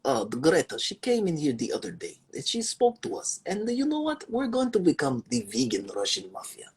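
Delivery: mock Russian mafia boss in a Russian accent; thick put-on Russian accent, slowed in places. Russian mobster telling the crew about Greta, in a Russian accent. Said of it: "Let me get my Russian accent going".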